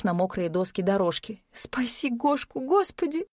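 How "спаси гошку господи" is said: high, slow tearful plea to God; sobbing prayer. A narrator's reading. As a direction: weep out the prayer. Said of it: "рыдала Ирина".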